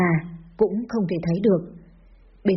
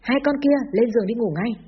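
father's yell; 3 semitones higher than usual. Acted. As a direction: order the children off with a restrained yell. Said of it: "câu bố đã quát".

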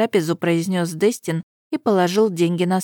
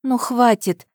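tired sigh; 5 semitones higher, slower than usual. A narrator's reading. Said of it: "вздохнула устало".

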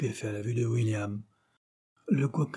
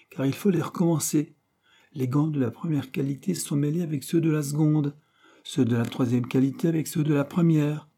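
higher, louder reproach; scolding manager; 5 semitones higher, 3 dB louder than usual. Acted. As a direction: scold the clerk sharply. Manager scolding over gloves.

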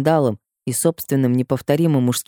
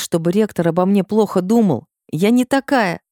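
usual speaking voice

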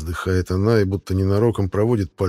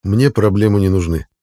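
firm, louder statement; firm refusal; 5 dB louder than usual. Acted. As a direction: shut it down firmly. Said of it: "говорю я твёрдо". (твёрдо и громче обычного)

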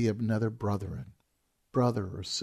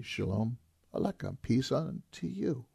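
gentle greeting; 4 dB quieter than usual. Shown as a demonstration. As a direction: offer it like a blessing. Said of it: "It would be a greeting".

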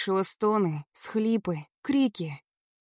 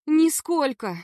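put-on a frightened girl crying out her denial; 6 semitones higher, slower than usual. A narrator's reading. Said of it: "выкрикнула я".

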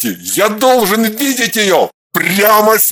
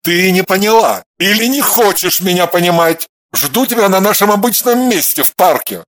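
louder angry ultimatum; growling; 3 dB louder than usual. A narrator's reading. Alexander demanding a meeting, angry growl. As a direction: growl the order. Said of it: "прорычал".

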